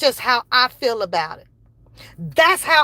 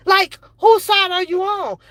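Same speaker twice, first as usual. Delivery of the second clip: angry shout; 5 semitones higher than usual. Real, not acted. Angry rant demanding loyalty.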